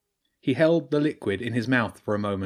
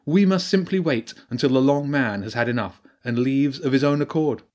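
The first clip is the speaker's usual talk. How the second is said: higher and louder, a wise old badger priestess; 3 semitones higher, 3 dB louder than usual. Priestess explains the Long Man to Jenny, grave and raised. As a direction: speak as the learned priestess warning of an old evil.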